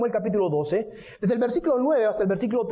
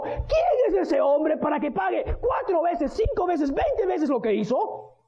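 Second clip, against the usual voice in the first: higher, slow outraged king; slow, higher, indignant demand for payback; furious shout; 6 semitones higher, slower than usual. Acted. David hears Natán's story, slow furious outcry. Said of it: "comenzó a gritar".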